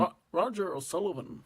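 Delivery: hesitant attempt at a Scottish accent. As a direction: own name in a put-on Scottish accent. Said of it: "say your own name in, in that Scottish accent".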